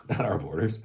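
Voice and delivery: chuckling at the absurdity; mocking line dissolving into laughter; laughing. Real, not acted. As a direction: repeat it through a laugh.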